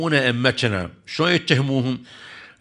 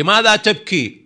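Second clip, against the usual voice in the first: retold astonished question; 8 semitones higher, 5 dB louder than usual. Questions the weeping boy in story.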